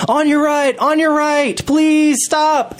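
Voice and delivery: high, urgent re-enacted warning yell; acted-out scream to someone in the way; retold screaming. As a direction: call out a warning at the top of your pitch. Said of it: "so I'm screaming".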